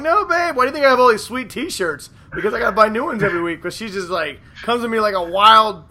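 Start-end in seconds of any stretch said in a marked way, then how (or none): 0.0-3.6 higher, pleading husband voice; high protesting husband. Retold or imitated. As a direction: protest to her, whining. Voicing himself to wife.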